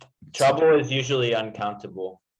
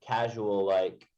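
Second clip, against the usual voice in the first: slow repeat; slower than usual. Retold or imitated.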